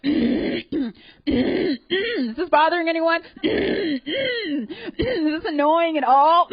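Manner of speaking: high, slow, faux-polite question between throat clears; mock innocent. Comedian acting out clearing her throat for an hour, mock polite. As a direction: sweetly needle the room. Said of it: "Just like".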